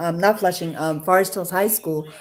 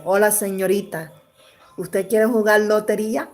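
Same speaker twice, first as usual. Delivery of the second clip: Spanish line. Retold or imitated. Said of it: "how would he say to me".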